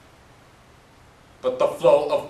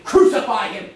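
mock crowd yell, a bit louder; half-hearted crowd chant, louder; retold shout; 3 semitones higher, 5 dB louder than usual. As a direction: echo the mob's cry with a raised voice. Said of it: "They just kept shouting".

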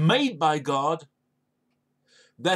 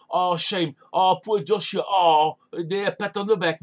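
mock pity; 3 dB louder than usual. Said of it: "No, no, he says".

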